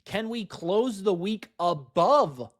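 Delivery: real excitement, bursting out high and loud at first; excited near-scream. Real, not acted. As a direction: get carried away by the chart. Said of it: "I'm screaming. I'm getting excited".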